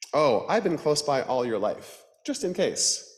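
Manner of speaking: high, bright Death voice; grim reaper voice. Acted. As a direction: greet her as a cheerful Death. Death character voice.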